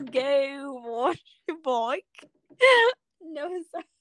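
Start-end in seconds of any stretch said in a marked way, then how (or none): 0.1-2.0 slow, wobbly attempt at British; put-on British accent. Friend echoing cohost about the bike, put-on British accent. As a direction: drag the words out in mock British. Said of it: "I don't even have this accent".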